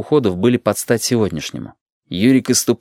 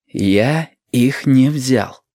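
slow, each word of Я их не взял set apart, stress on не; carefully spelled-out words; 3 semitones higher, much slower than usual. Acted. Yurik carefully enunciating to his confused grandmother. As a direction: spell it out patiently through clenched nerves. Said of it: "тщательно выговаривая слова".

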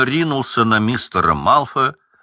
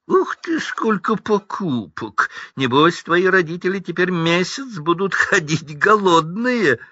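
mocking Draco; 9 semitones higher than usual. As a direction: taunt the poor boy with glee. Драко издевается над Уизли. (издевательский голос Драко)

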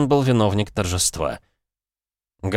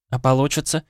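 doubtful; 6 semitones higher than usual. Acted. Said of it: "с сомнением уточнила Теймэй".

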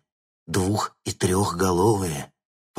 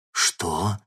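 usual speaking voice

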